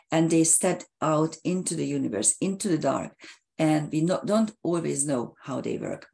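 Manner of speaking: hoarse, fading voice; losing voice. Real, not acted. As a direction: voice giving out, a bit hoarse. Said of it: "I'm u-, losing my voice".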